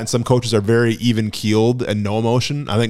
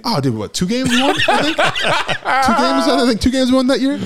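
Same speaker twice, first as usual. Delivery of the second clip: laughing; 12 semitones higher than usual. Real, not acted. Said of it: "Just shoot me".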